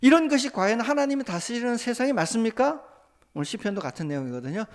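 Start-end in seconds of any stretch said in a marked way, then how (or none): 0.0-2.8 high, louder urgent prayer; a believer praying over a newspaper story, high and loud; fervent prayer. Acted. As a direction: lament injustice to God at full voice. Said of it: "하박국처럼 좀 더 나가면".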